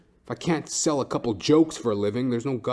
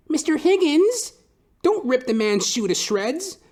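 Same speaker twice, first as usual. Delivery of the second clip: much higher, slow sing-song scold; lady scolding dog; 5 dB louder, slower than usual. Retold or imitated. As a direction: play the lady gently telling off her dog. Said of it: "mocking lady scolding dog".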